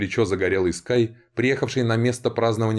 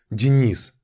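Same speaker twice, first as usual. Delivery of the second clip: calling out; 5 semitones higher, 5 dB louder than usual. Acted. Woman calls out to Denis.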